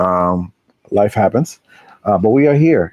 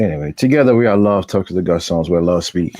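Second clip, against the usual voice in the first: radio announcer voice; 2 semitones lower than usual. Real, not acted. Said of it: "Why I sound like a radio announcer?".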